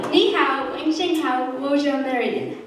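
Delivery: giggly Chinese. Shown as a demonstration. Child giggling while greeting the audience in Chinese. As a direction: laugh your way through "Ni hao". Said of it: "in Chinese".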